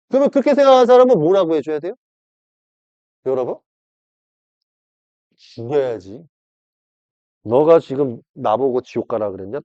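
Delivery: usual speaking voice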